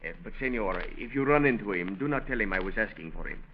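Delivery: halting, lightly faked Mexican accent; phony Mexican accent. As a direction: cop undercover asking about a man, fake Mexican accent. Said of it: "that phony accent".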